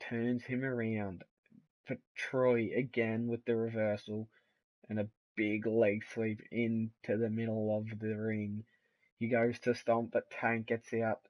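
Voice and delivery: lively ringside play-by-play; wrestling commentator. Acted. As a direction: call the match like live TV. Live play-by-play of match.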